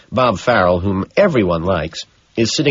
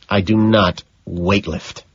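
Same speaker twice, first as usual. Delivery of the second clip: sighing; slower than usual. Acted. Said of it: "I sigh".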